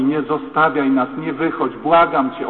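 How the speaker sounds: loud, urgent retold plea; desperate begging. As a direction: beg someone not to walk out. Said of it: "kobieta go łapie za nogi". (głośne, rozpaczliwe błaganie)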